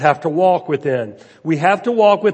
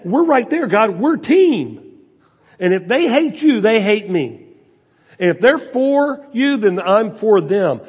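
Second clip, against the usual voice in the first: fervent vow; 4 semitones higher than usual. Acted. Preacher voices David's loyal prayer.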